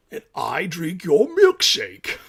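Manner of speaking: slow mock-menacing gloat at the shorts; put-on deep voice. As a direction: drag out the taunt like a movie villain. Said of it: "That's a deep voice".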